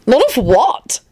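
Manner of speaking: high-pitched eager piping. A narrator's reading. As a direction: pipe up, hungry for gossip. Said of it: "Antonin piped up eagerly".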